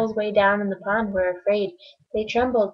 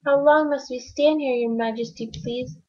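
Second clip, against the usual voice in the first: higher, small pleading voice; higher timid turtle, fading at the end; timid little turtle; 6 semitones higher than usual. Acted. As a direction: beg politely from the bottom of the stack. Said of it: "this plain little turtle looked up and he said".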